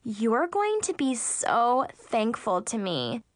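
slow breathy flirting; breathy whispered sweet talk. Acted. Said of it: "she said in a breathy voice".

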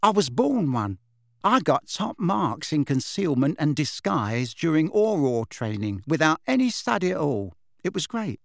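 lightly pleased, chatty witch; a hint of cheerful boasting; lightly voiced breezy witch. Witch recounting her training, lightly breezy.

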